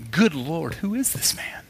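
hushed awe sinking into a whisper; acted awestruck whisper; awed whisper. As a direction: breathe it out in stunned wonder. Disciples awed by calmed storm.

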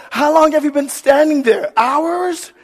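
high, startled, comic outcry; mock freaked-out. Parent waking to a child's face, freaked-out question. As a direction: imitate a parent spooked awake, pitch way up. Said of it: "freaks you out".

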